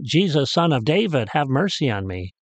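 imitated call, easing off at the end. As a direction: retell a plea called to someone passing. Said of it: "He called out".

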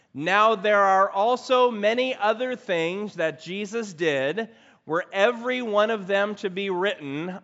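congregation reading aloud together; many voices in unison. Real, not acted. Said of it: "read it aloud together".

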